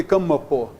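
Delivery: "campo" said as "cam-ma-pô", with a full M; mock mispronunciation of "campo" as three syllables; M wrongly sounded. Shown as a demonstration. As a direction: give the M in "campo" its own syllable. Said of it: "Para o M ser consoante".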